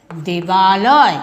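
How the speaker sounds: দেবালয়, said very slowly with each sound stretched; drawn-out answer. Shown as a demonstration. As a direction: stretch দেবালয় out like a teacher spelling it for the class. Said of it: "কি হবে?". (শিক্ষকের মতো দেবালয় খুব ধীরে টেনে টেনে বলা)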